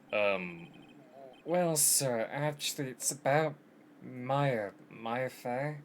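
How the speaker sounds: tentative, lightly acted young lawyer; hesitant. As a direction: broach it cautiously, tailing up at the end. Hesitant rookie lawyer addresses the boss.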